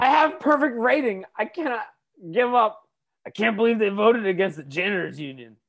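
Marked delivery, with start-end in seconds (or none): 0.0-2.8 mock Croatian accent. Mocks the hitman's accent.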